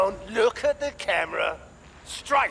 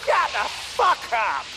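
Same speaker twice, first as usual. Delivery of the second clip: angry yell; 4 semitones higher than usual. Acted. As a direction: yell him into silence. Slaver yells at screaming captive.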